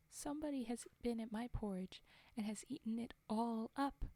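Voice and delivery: a small bear's complaint that squeaks up at the end; little wee bear. Acted. Narrator reading to listeners as the little wee bear, mildly upset. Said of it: "in his little wee voice".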